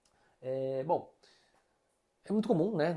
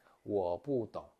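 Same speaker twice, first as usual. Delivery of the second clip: slow model phrase; 2 semitones lower, 3 dB louder than usual. Shown as a demonstration. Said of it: "você pode falar assim".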